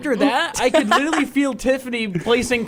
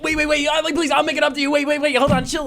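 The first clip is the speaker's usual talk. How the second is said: pleading; 7 semitones higher than usual. Retold or imitated. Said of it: "and then I was like".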